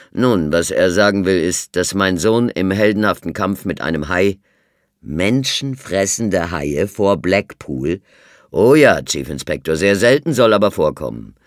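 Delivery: put-on loud, emphatic old colonel; firm colonel. A narrator's reading. The colonel defends his son to the inspector, firmly. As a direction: insist on the story. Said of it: "Stimme klang bestimmt".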